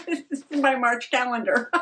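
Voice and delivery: high, laughing surprise; suddenly finding what was lost; surprised. Real, not acted. Finds the lost calendar page.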